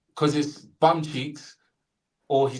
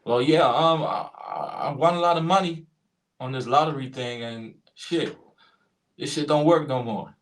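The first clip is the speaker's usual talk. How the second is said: lightly put-on American drawn from slang; a hint of annoyed American lottery winner; American accent. The speaker complains to customer service, put-on American accent. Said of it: "do an American accent".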